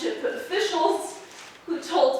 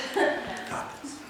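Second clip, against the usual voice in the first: nervous laugh; 3 semitones lower, 5 dB quieter than usual. Real, not acted. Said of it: "I'm a little nervous".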